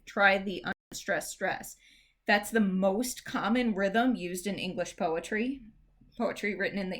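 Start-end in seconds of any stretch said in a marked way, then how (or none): 0.0-1.8 slow, deliberate delivery of the key rule; slow emphasis. Shown as a demonstration. Teacher stressing the number one rule to students, slow. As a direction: spell the rule out slowly. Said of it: "the number one rule to remember".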